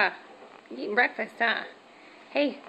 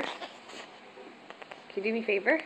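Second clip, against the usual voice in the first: slow soft whisper; 4 dB quieter, slower than usual. Shown as a demonstration. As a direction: breathe it out slowly. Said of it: "Hey, can you do me a favor?".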